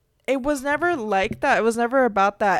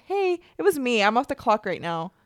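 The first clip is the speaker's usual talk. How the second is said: pretend fight challenge; 2 semitones higher, 4 dB louder than usual. Imagined challenge to customer.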